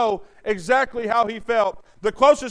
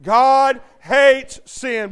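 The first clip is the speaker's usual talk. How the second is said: slower and louder, "hates" hit hard; call for the congregation; 6 dB louder, much slower than usual. Shown as a demonstration. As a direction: boom "hates" for the church to echo. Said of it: "Say it with me".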